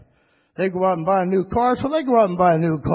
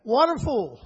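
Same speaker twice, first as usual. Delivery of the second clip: high, fervent testimony of a sinking man; joyful believer in trouble; 6 semitones higher than usual. Acted. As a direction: cry out your trust in God while going under.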